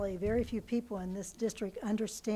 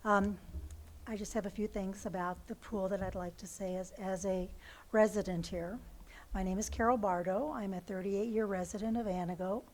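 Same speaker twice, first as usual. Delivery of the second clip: hoarse voice. Real, not acted. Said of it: "I have no voice because of the smoke".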